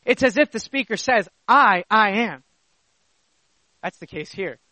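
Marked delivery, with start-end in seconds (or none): 1.5-2.4 first "I" drawn out, then "I am"; stress on I. Shown as a demonstration. Preacher voicing the one who's speaking, emphatic "I". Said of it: "to draw emphasis upon the I".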